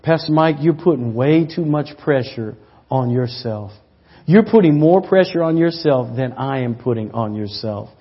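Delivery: hushed and low, almost breathless; soft whisper. Retold or imitated. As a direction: lean in and say it gently, like into an ear. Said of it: "Jesus whispers in my ear".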